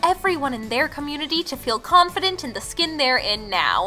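loud, lively host-read ad; sponsor ad read. Acted. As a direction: pitch the skincare brand with punchy emphasis. Reads a sponsor segment.

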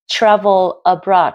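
"travel abroad" joined through the l; "travel abroad" as one stretched word; linked sounds. Shown as a demonstration. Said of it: "Tiếp theo mình có nối âm".

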